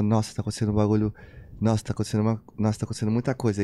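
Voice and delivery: rushed, awed inner voice; fast awed thought. Retold or imitated. Replaying his own racing thought in the square, fast and awed. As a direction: tumble the words out fast in awe. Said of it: "eu pensei assim, exatamente assim".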